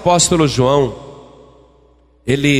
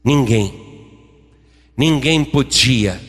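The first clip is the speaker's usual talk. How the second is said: solemn sermon narration; 4 semitones lower than usual. A narrator's reading.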